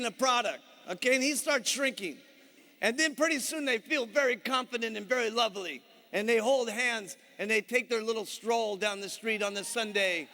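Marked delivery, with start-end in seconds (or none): none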